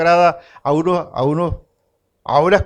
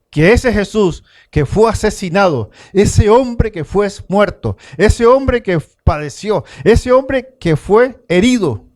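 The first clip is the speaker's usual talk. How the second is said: rising fervour; 3 semitones higher than usual. Real, not acted. Preacher builds to a climax.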